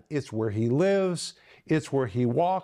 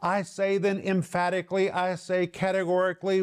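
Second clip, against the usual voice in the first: higher, insistent delivery of "emphatically" and "categorically"; emphatic declaration; 4 semitones higher than usual. Acted. Preacher paraphrasing Paul for his viewers, emphatic and higher on "categorically". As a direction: drive home "emphatically" and "categorically" with raised pitch. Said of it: "I'm telling you emphatically".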